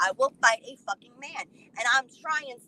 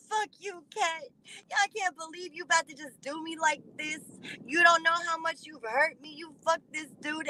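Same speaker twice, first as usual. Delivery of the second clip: mock crying; 3 semitones higher, 3 dB quieter than usual. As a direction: plead like a crying ex, hammed up. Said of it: "He's crying real tears".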